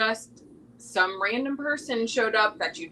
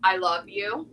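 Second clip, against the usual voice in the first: I love you ... Thank you, each phrase given slowly with pauses, fading softer; slower; 3 semitones lower, 4 dB quieter than usual. Shown as a demonstration. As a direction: say the four phrases slowly and gently. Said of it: "Say it again one more time slower".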